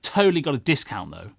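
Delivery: put-on high, loud, dismissive girl's voice; imitated young girl. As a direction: mimic a scornful girl talking him down. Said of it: "I heard her say clear as day".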